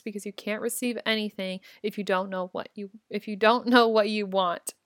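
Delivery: talking between sips of coffee; words around a coffee sip; while sipping a drink. Real, not acted. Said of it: "I'm drinking my coffee".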